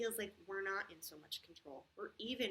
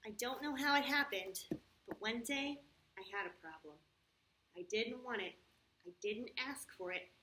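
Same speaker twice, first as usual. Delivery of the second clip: put-on storybook narration for children; story reading; 3 dB louder than usual. A narrator's reading. Teacher reads the problem story to the kids, storybook voice. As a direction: read it like a picture book aloud.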